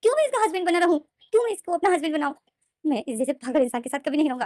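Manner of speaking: high, loud tearful protest; crying in anger. Acted. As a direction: rail against it through tears. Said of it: "विंग जो रो रहा था".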